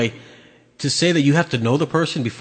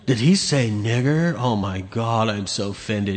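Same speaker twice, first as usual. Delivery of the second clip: mock offended; 2 semitones lower, 3 dB quieter, slower than usual. Mimicking offended people after clip.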